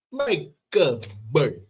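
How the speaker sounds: slow bad Italian accent; Steven Seagal. Any chance to do it, slow Italian accent. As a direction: draw out each word in a mock Italian accent. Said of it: "do that Italian accent".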